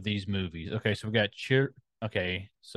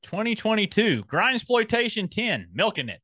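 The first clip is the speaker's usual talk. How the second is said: holding back laughter; 10 semitones higher than usual. Real, not acted. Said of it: "hard to get out without laughing".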